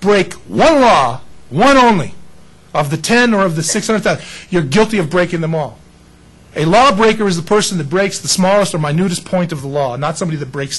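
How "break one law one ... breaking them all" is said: Paul's warning. Retold or imitated. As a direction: press each word of the rule. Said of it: "Paul says".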